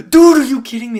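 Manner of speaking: loud, high outburst of disbelief; disbelieving shout. Retold or imitated. Fan reliving his shock at the villain. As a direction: yell at the screen in shock. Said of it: "I was like".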